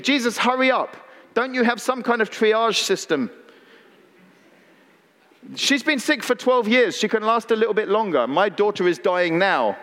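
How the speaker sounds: exasperated, fast pleading; a lightly voiced hurried father nagging; impatient Jairus. Pastor voices Jairus urging Jesus to hurry, exasperated. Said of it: "he must be thinking".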